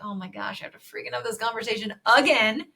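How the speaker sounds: exasperated retold inner grumble; acted-out weary annoyance; annoyed. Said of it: "I'm annoyed".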